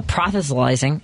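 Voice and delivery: PROSELYTIZING garbled as "prothe-se-lyzing"; mispronounced. Real, not acted. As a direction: stumble through PROSELYTIZING with a th sound, "PROTH-uh-suh-lyzing". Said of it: "Am I saying that right?".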